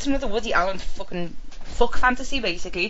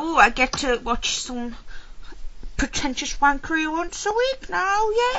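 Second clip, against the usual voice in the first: rising to a high mock-cheery yay; sarcastic excitement; 7 semitones higher than usual. Podcaster pretends to welcome Amazon series, sarcastically thrilled. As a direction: feign giddy delight, climbing ever higher.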